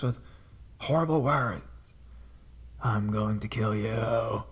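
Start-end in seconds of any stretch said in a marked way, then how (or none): 2.8-4.4 slow, rasping, half-whispered menace; creepy rusty voice. Retold or imitated. Prank caller threatening the operator, slow rasping menace. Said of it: "deep and rusty and almost like a whisper".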